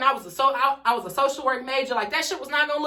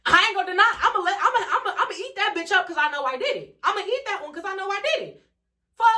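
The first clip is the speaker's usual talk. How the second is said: mocking laugh; 8 semitones higher, faster than usual.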